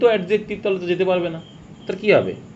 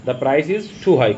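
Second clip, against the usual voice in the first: 1 slow read-out; much slower than usual. Shown as a demonstration. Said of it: "মাছটা out করে দাও".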